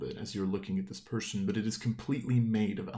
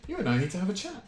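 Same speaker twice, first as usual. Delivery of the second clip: stern figure voice; 10 semitones higher, much faster than usual. Acted. DM's figure confronts player.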